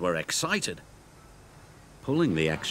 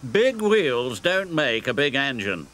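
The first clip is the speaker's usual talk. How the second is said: boasting; 3 semitones higher than usual. Acted. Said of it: "boasted Gordon".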